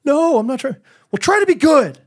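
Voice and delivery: put-on high, sing-song toddler-dad dialogue; dad and son playful exchange; mock dad voice. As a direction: play both dad and son brightly. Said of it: "Are you trying to be bad".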